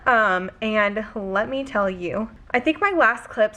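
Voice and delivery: talking out of breath, after a workout; winded, catching breath between words. Real, not acted. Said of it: "sorry, I'm having trouble catching my breath".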